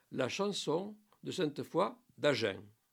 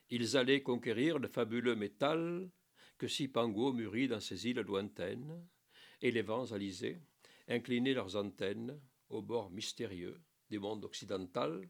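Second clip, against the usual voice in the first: hushed classic poem reading; poem recitation; 2 semitones lower than usual. Acted.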